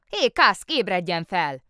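the mayor shouting at the sleeping policeman. Acted. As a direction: yell to rouse a sleeper.

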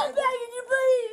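tearful begging, voice rising; crying plea. Real, not acted. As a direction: beg through tears. Pleading during arrest.

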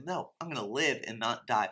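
steady, resolute, "live" leaned on; firm faith declaration. Shown as a demonstration. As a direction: declare it against the bad report. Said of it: "No, you go to God and you say".

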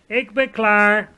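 loud, high, drawn-out cry of readiness; eager call. A narrator's reading. Sophie answering the giant before setting off, eager call. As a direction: call it out at full voice, stretched. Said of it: "riep Sophie".

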